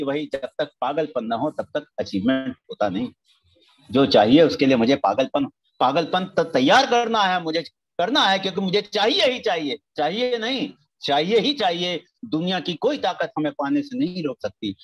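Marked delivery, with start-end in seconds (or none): 3.9-12.0 loud, fervent preaching; louder, insistent sermon cry. Real, not acted. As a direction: push it out with burning conviction. Fervent call to frenzied desire.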